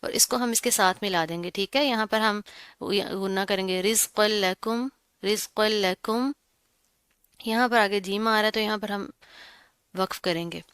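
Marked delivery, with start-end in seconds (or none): 3.8-6.3 रिज़्क़ल लकुम with the doubled l pressed and held; firm, held joining. Shown as a demonstration. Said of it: "मजबूती से जमा कर पढ़ेंगे". (रिज़्क़ल लकुम, लाम मज़बूती से जमा कर)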